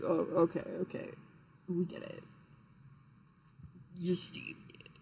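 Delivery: mock exasperated listener. Mocking an imagined audience's reaction.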